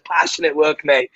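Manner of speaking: put-on quick quote in a Cockney accent; Cockney North English accent. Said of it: "in his Cockney North English accent".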